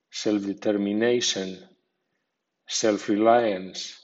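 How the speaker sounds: self-adjusting with self given a secondary, medium stress. Shown as a demonstration. Teacher shows Spanish learners how to pronounce self words, medium stress on self. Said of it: "con acento medio, así".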